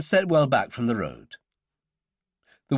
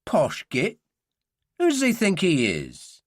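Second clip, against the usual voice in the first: scornful Cockney, pitched up; resentful Cockney lad; Cockney accent; 6 semitones higher than usual. A narrator's reading. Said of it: "said in a Cockney accent".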